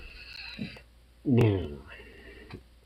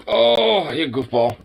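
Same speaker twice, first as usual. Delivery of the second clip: pet voice; 6 semitones higher, slower than usual. Real, not acted. Cooing at pet.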